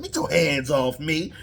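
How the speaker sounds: laughed-through mock line; laughing Denzel line. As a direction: say it cracking up. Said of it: "He pulled a Denzel".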